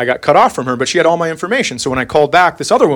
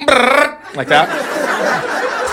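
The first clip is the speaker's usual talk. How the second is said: engine noise imitation; 8 semitones higher, much slower than usual. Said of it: "cars that go".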